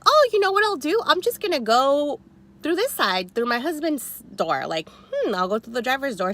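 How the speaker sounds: high, sassy plan, very pleased with herself; mock-sweet scheming. Tells the parking rival her plan, high and sassy. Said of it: "So I was like".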